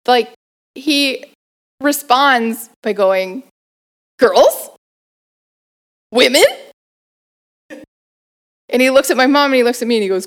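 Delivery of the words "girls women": put-on Persian accent. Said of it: "every time I do an accent".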